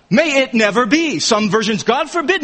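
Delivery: emphatic denial. Retold or imitated. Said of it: "he's emphatic".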